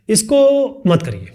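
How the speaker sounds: drawn out slowly, each word held; slow firm take. Shown as a demonstration. Teacher showing two ways of saying one line, slow version. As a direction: say it slowly and deliberately. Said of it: "दो अलग तरीके का हो गया ना बोलने का तरीका".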